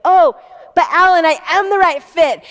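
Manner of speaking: the founder desperately pitching herself to the QVC head, eager and loud. Retold or imitated. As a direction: rush to sell yourself, almost begging. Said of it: "I went right into pitching myself".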